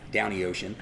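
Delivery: "down the ocean" said as one run, "downy ocean", Baltimore style; a light Baltimore "downy ocean"; Baltimore accent. Shown as a demonstration. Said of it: "it's D O W N Y".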